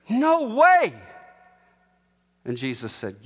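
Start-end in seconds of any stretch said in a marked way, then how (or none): 0.1-0.9 sharp loud protest; Peter's protest. Retold or imitated. Peter refusing Jesus, a loud no. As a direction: exclaim it in disbelief.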